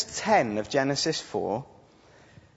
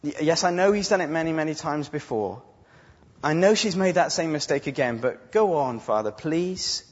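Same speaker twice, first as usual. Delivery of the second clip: a hint of begging; mild mock plea to the Father; pleading; 3 semitones higher than usual. Jesus imagined begging his Father, lightly pleading. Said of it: "isn't there saying".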